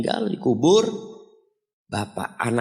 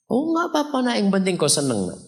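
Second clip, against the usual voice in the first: put-on gentle old father; 9 semitones higher than usual. Old father answers his son.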